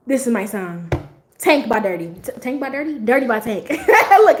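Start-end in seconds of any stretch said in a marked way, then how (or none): 1.4-3.7 flustered, tripping over words; tongue-tied. Real, not acted. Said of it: "You got me slurring my words". 3.7-4.4 loud, laughing out the word. Real, not acted. Laughing, flustered.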